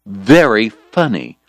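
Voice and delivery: slow, dry, crisply enunciated; deadpan jab, every sound clear; sarcastic. Acted. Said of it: "sarcastic but clearly enunciated".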